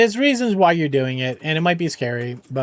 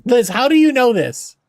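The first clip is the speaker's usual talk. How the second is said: higher, louder, stressing you; louder amazed repeat; 4 semitones higher, 4 dB louder than usual. Real, not acted. Asking Liz again how she knows, loud and amazed.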